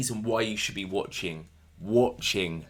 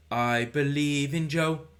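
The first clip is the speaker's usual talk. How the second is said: higher, drawn-out crowd-rousing call; imitated catchphrase; 5 semitones higher, slower than usual. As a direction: stretch it out like a wrestler's slogan.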